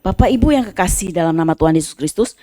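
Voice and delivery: rising, fervent sermon voice; preaching. Acted. Pastor exhorting the congregation, fervent preaching. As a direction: preach it out to the church.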